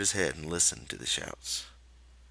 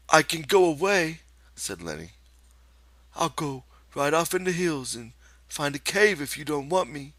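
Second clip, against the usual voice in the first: crafty Lenny; 9 semitones higher, 5 dB louder than usual. Acted. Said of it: "said craftily".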